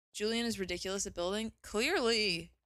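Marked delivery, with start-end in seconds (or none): 1.6-2.5 "Clearly" stretched out long with a falling tune; odd drawn-out clearly. Real, not acted. Streamer praising a friend's building, drawn-out knowing clearly. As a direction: drag out "Clearly" slowly and let it fall. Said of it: "Why did I say it like that?".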